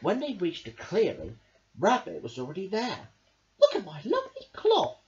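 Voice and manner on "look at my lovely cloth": high, loud proud call; crying out. Acted. Rabbit shows friends his lovely cloth, crying out high. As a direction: show off the treasure. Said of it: "he cried".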